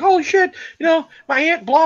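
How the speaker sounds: exaggerated mock panic, brushed off with blah; mocking freaked-out girlfriend. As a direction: parody his girlfriend losing it. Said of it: "She's like".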